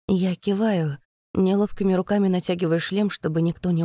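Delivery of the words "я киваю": plain reading voice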